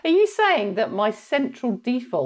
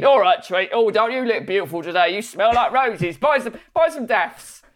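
loud Cockney sales patter; a hint of a Cockney flower seller; 3 dB louder than usual. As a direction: charm the customer like a Cockney trader. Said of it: "they go".

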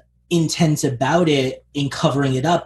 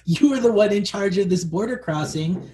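higher-pitched indignant scolding; exasperated protest; 5 semitones higher than usual. Acted. Host telling off the security guard, exasperated. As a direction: argue with him in disbelief.

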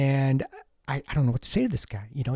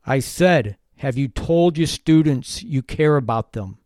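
a little louder, ticked off; 5 dB louder, slower than usual. Retold or imitated. Colleague repeating his question to the teacher, louder and annoyed. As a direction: repeat it louder and slower, a bit irritated. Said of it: "a little louder, like he was kind of, you know, a little ticked off".

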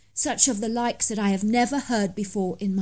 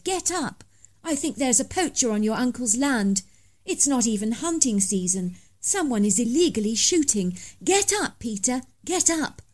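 urgent wake-up call; 3 semitones higher than usual. Acted. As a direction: rouse a sleeping friend, pitched up. Waking friend about poacher.

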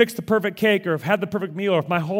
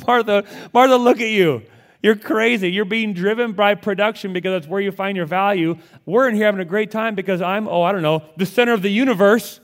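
high, loud, teasing Jesus voice with a chuckle; amused Jesus; 4 semitones higher, 6 dB louder than usual. Retold or imitated. Jesus teasing busy Martha in her kitchen, high and amused. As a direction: playfully scold the frazzled host, laughing. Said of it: "Jesus is kinda like".

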